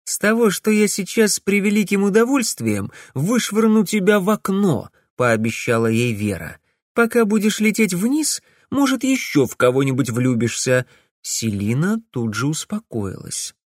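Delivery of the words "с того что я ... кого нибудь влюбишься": threatening. A narrator's reading. Vera threatens the witch.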